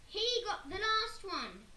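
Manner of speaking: high, loud, slow screech; Henry screeching at Mum. A narrator's reading. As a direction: screech the accusation. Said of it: "screeched Henry".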